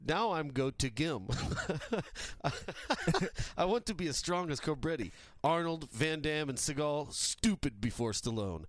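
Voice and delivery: mock Russian accent reading; broken English in a Russian accent. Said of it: "Sorry my, for my bad English".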